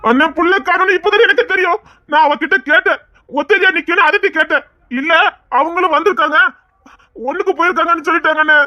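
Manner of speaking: worried self-justification; anxious explaining. Acted. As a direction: plead your innocence urgently. Anxiously explaining himself under questioning.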